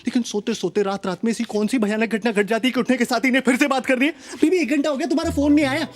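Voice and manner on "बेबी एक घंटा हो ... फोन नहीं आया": higher, lightly put-on clingy girlfriend whine; a hint of a needy girlfriend complaining; mock girlfriend. Mimicking his girlfriend's complaint about no call, in a higher mock whine.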